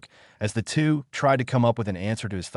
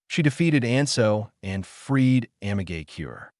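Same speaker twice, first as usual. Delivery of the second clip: with conviction. Acted. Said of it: "she stated with conviction".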